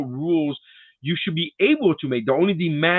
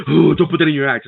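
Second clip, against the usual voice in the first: mock alarmed gasp; 7 dB louder than usual. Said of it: "they'll be like".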